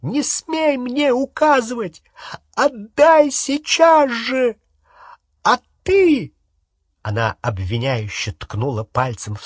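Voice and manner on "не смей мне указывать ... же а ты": high, loud, slowed commands; shrill enraged demand; raging. Acted. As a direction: bark each order in fury. Hermione raging at Harry, Ron.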